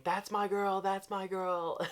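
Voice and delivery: high, loud mock yell of support; fan's mock screaming cheer; retold scream. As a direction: cheer her on like from the crowd. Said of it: "I kept screaming".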